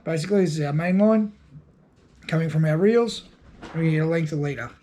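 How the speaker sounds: sniffly, stuffed-up nose voice; talking through a runny nose. Real, not acted. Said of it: "uh, runny nose".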